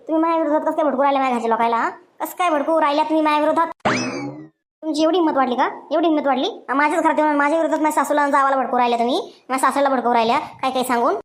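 rapid, heated accusation; fast angry confrontation. Acted. Daughter-in-law confronts gossiping neighbour.

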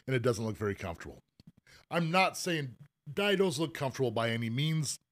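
talking through hiccups; hiccuping between words. Real, not acted. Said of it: "I got the hiccups again".

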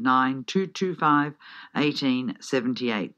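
slow, deliberate phone number. Real, not acted. Radio host repeats ticket number for listeners, slowly. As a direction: read the number out slowly for note-taking. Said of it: "If I said it too fast, I'll say it again".

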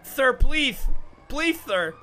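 loud, begging cries; desperate pleading shout. Acted. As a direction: beg for mercy at full voice. Begging prisoner in cell.

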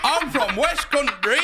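slow put-on West Country accent. Cliff insisting on his home, slow West Country accent. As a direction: drawl out where you're from, West Country style. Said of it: "you sound like you're from Yorkshire".

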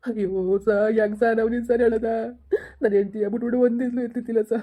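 sobbing plea to the officer; husband crying to the police, unable to stop. Acted. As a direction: say it while weeping. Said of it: "ಅಳೋದ್ ನಿಲ್ಸಿ ನೀವು".

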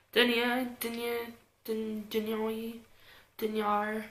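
"denier" tested as DEN-yuh, then den-YAR; unsure pronunciation. Real, not acted. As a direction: try "denier" several ways, shifting the ending. Trying out ways to say denier.

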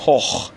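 هخ as "hokh", with a long o and throaty خ. Shown as a demonstration. Teacher reads the word for learners to repeat, ch as kh. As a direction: say German "hoch" ending in kh.

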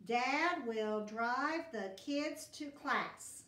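slow, clear read for checking; teacher checking the sentence. Shown as a demonstration. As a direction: read it slowly so they can check. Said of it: "I started with a capital D".

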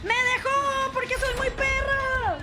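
shouting. Real, not acted. Dropped by killer, yelling.

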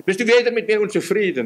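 high, wavering mock lament of a doubter; hammed-up doubting plea to the Lord. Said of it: "zweifeln, zögern deswegen und wanken".

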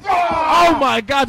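excited shout. Real, not acted. Commentator shouting at a knee.

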